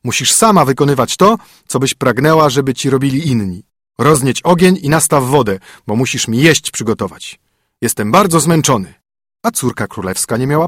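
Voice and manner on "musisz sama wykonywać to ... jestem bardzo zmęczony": brisk, bossy husband; stern husband. Acted. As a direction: lay down the rules to the spoiled princess. Narrator voices the stern husband.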